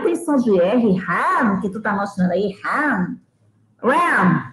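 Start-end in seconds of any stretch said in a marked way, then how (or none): 2.6-3.2 "Ram" with an English h-like breathy start; model word. Shown as a demonstration. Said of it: "Repeat me". (pronúncia modelo de "Ram")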